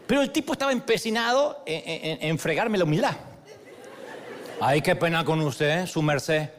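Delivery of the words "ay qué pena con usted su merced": slow, drawn-out Colombian apology; apologetic Caleño accent. Retold or imitated. Clerk insisting on apologizing to guest, Caleño accent. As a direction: imitate an over-polite Cali clerk. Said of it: "me dice con su acento caleño".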